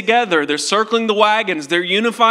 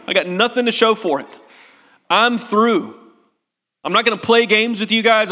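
bitter Thomas; 3 semitones higher than usual. Acted. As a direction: wave them off like you've given up. Preacher voices bitter Thomas quitting.

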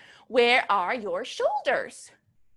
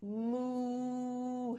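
soft moo; 3 semitones lower, 11 dB quieter than usual. Shown as a demonstration. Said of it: "Can you try that, Lily?".

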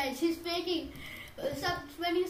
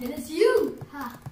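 gloating; 8 dB louder than usual. Real, not acted. Gloating at friend.

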